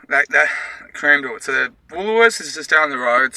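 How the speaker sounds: panting while walking; breathless between words; out of breath. Real, not acted. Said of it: "so out of breath".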